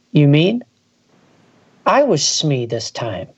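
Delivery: calm, even storytelling read; story narration. Acted. Reading a spooky tale aloud to podcast friends, steady narration.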